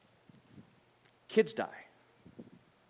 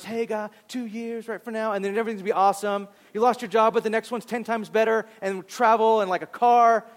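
higher, bright cheerleader pep; mock-upbeat prophecy over someone grieving; mock cheerful promise; 5 semitones higher than usual. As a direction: cheer them on like a hype man. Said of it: "someone singing over us".

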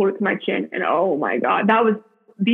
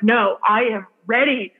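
mild mock yell, insisting on AM READY; retold yell. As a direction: insist firmly, as if retelling a yell. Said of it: "Like, I was yelling".

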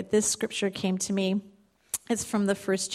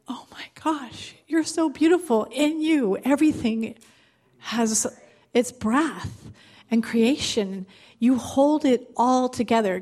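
starts in a whisper, then higher with wonder; awed; 3 semitones higher than usual. Retold or imitated. Retelling her vision, speaking to Jesus in awe. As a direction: breathe out the first words, then lift in awe.

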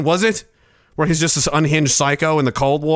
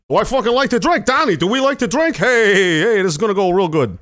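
Italian mobster; 5 semitones higher than usual. Pretend. Italian mobster toasting drinks.

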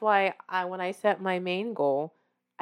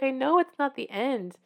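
higher, plaintive protest; mock tearful; 6 semitones higher than usual. Wife conceding it's not the end, plaintively. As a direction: lightly whine it as if near tears. Retold tearful answer to husband.

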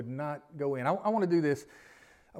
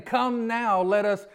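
pleading scripture; 2 semitones higher, 5 dB louder, slower than usual. Retold or imitated. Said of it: "the Isaiah thing".

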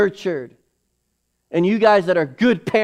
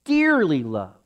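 soft echo. Acted. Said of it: "repeated softly".

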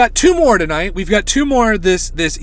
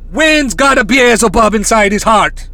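loud, hammed-up Irish-tinged psychic accent; Miss Cleo; 4 semitones higher, 4 dB louder than usual. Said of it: "That's the Irish Miss Cle".

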